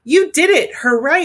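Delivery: high, loud happy cheer; a proud aunt's delighted shout; joyful cheer. Acted. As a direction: cheer her on, overjoyed. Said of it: "started to cry".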